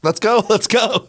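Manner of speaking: high, slow, laughing urge; eager calling out. Retold or imitated. Groom waiting outside, calling the late guests in. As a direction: call them in, laughing and impatient. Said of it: "I was standing outside the house saying".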